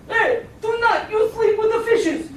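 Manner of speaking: hammed-up gangster warning; tiger mob boss. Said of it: "the Don turns to me and he says".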